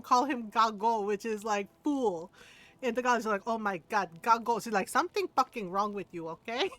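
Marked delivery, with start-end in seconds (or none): 3.5-4.6 lightly imitated Filipino accent; a touch of a disgusted Filipino mom; Filipino mother. Filipino mom calling son fool, lightly accented dismay. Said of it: "our little tiny Filipino mother". 4.9-6.7 lightly imitated Filipino accent; a touch of a scolding Filipino mom; Filipino mother. Filipino mom dismissing her son, lightly accented scolding. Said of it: "our little tiny Filipino mother".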